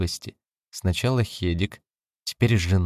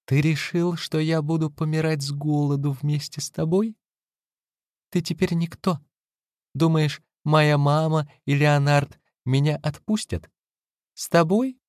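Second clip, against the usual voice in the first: higher scornful woman's voice; wife's bitter taunt; 8 semitones higher than usual. A narrator's reading. Wife mocks her ruined husband, high and scornful. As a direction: throw the questions at him with contempt.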